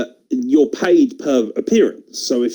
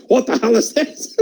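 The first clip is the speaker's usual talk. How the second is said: higher gruff Vince impression; Vince voice as a kid; 8 semitones higher than usual. Four-year-old Vince opens his present, gruff mock Vince. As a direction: growl it like Vince even at four. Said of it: "I imagine he still talks like he does".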